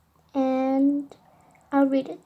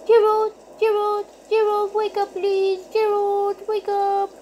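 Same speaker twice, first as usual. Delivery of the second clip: scared whisper-call; 4 semitones higher than usual. Acted. Frightened child waking brother.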